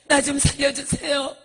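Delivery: acted sobbing prayer for rescue; tearful begging. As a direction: plead weakly to be pulled out, then cry out.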